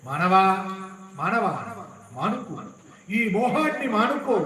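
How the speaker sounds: calling out in separate, forceful appeals; urgent exhortation. Acted. Preacher to mankind about giving up attachment, exhorting.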